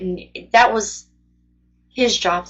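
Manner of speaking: talking through the hiccups; hiccuping between words. Real, not acted. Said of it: "Sorry, I have the hiccups".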